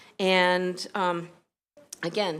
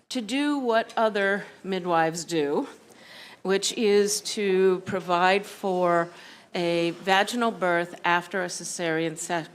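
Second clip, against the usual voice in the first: winded, short breaths between phrases; out of breath after rushing in. Real, not acted. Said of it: "I'm catching my breath here".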